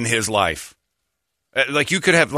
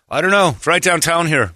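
lightly voiced evasive caller, higher; Ray; 5 semitones higher than usual. Old trainer dodges where he is, lightly voiced and higher. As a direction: pitch it up, a touch clueless. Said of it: "I got a call from him".

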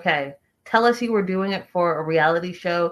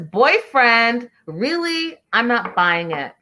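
higher-pitched sceptical questioning; mock incredulous; 4 semitones higher, slower than usual. Host reading out a viewer's doubting comment, mock incredulous. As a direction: read it out in mild mock disbelief.

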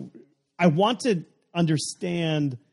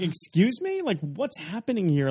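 high, incredulous excuse me; playing outraged disbelief; indignant surprise; 6 semitones higher than usual. Retold shock at couch tax.

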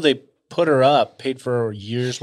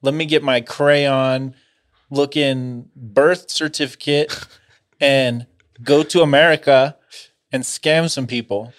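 put-on scheming teen voice; 2 semitones higher, 5 dB louder than usual. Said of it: "She's like".

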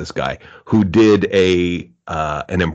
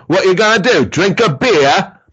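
mock heckler yell; 11 semitones higher than usual. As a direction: call it out from the back like a heckler.

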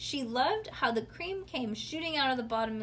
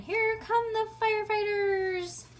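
much higher, slow sing-song call; playful siren game; 12 semitones higher, 6 dB louder than usual. Acted. Ivy playing firefighters, high slow sing-song. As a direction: play at being a fire truck. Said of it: "She made a sound like a siren".

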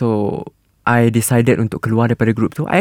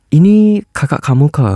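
Chinese Malay accent; 3 semitones higher than usual. Shown as a demonstration. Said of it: "speak like Chinese punya accent".

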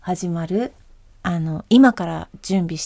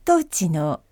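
airplane announcement; 3 semitones lower, slower than usual. Shown as a demonstration. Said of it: "飛行機アナウンス風で。".

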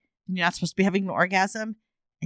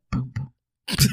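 heartbeat sound effect; 5 semitones lower than usual. Pretend. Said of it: "I'm doing sound effects here".

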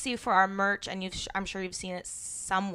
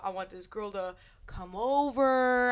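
brother's voice; 4 dB louder, slower than usual. Retold or imitated. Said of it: "He's like".

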